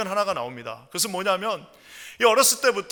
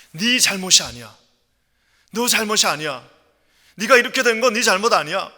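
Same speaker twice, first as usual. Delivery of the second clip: firm, louder acted insistence; emphatic counsellor, moderately raised voice; insistent reassurance; 3 semitones higher, 7 dB louder than usual. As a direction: press the comfort home with force. Counsellor insists in acted film scene.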